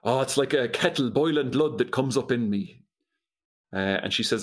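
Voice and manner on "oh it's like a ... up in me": put-on stage-Irish Quiet Man accent. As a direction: imitate an old-film Irish brogue, Quiet Man style. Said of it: "her best quiet man accent".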